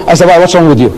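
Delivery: ordinary delivery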